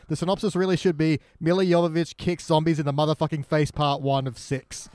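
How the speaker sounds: slow emphatic punchline. Real, not acted. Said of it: "what's the incorrect title".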